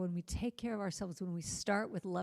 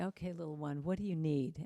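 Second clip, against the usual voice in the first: tender self-soothing; 2 semitones lower than usual. Retold or imitated. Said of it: "rock myself and just say".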